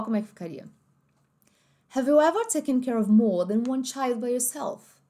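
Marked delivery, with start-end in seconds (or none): 1.9-5.0 slow, clear British English accent. Shown as a demonstration. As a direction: read it slowly like a British speaker. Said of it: "o inglês mais britânico". (sotaque britânico, devagar)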